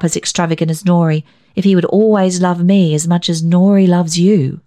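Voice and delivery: a hint of a spirited young woman; a daughter teasing her father; lightly voiced daughter Isabel. Isabel pleads for Nori.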